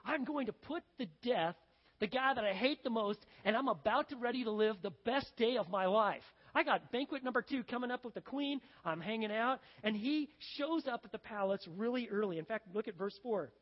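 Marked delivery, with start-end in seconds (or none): 0.0-9.6 lightly acted gleeful anticipation; excited schemer. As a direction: gush about the big day ahead. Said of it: "he's so excited".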